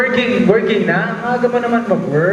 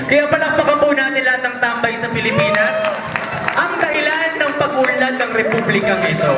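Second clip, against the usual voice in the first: raised-pitch mock oratory calling for applause; mock speech; 4 semitones higher, faster than usual. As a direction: proclaim it like a rousing tribute. (pabirong pagtatalumpati na mataas ang tono)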